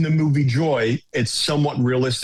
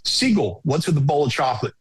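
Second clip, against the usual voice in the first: Keith's way of talking; 2 semitones higher than usual. Retold or imitated. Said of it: "and this way we talk".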